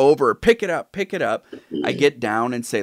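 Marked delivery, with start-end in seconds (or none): 0.3-1.5 mock bossy parent. Towering parent ordering child.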